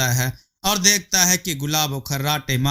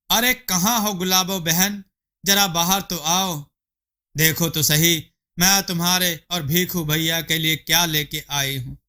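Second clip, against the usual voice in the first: neighbour calling; 3 semitones higher than usual. Acted. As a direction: call her out of the house cheerfully.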